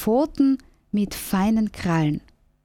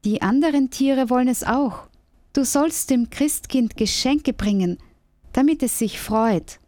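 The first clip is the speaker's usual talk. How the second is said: higher, chirpy little squirrel; 4 semitones higher than usual. Acted. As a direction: voice the squirrel high and eager. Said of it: "sagt das Eichhörnchen".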